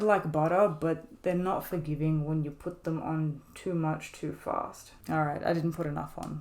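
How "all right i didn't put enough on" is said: words pushed through clenched teeth; talking through teeth. Real, not acted. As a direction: speak with teeth held together. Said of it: "talking through my teeth".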